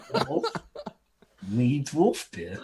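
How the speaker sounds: slow, dim-witted dwarf grunt; dumb dwarf voice. Pretend. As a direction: play the dwarf as a simple brute.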